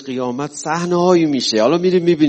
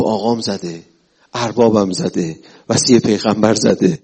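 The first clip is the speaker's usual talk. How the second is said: slow, swelling, tearful praise; grieving thief praising his master, growing louder; crying devotee; 3 semitones lower, 5 dB louder than usual. Acted. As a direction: let the love break through the tears.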